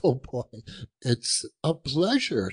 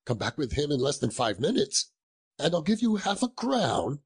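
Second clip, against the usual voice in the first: lively, swooping urging; eager insistence; 4 semitones higher than usual. Acted. Scrooge sends the boy for the turkey, eager and insistent. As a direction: press the offer with mounting eagerness.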